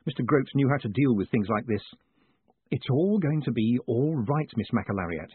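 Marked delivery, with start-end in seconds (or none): 2.7-5.3 soothing. Acted. Moist patting the weeping woman's shoulder, soothing. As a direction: soothe them gently and unhurriedly. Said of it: "he said soothingly".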